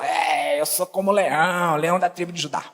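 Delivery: low, puffed-up mimicry; mock boastful lion. Mimicking self-styled lion people.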